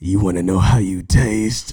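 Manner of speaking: low, slow robotic Terminator voice. Shown as a demonstration. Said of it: "You wanna sound like the Terminator".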